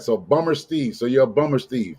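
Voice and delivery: BUMMER said with an American r; American-style BUMMER, r fully sounded; American pronunciation. Shown as a demonstration. Renaming the Australian guest, American BUMMER. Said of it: "I'm gonna say it like we say it here".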